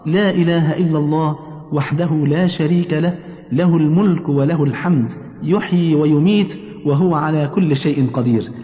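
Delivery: slow, deliberate recitation in short phrases; prayer recitation. Shown as a demonstration. Teaching mother the dawn and sunset remembrance, slow recitation. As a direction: recite it slowly, drawing out the vowels.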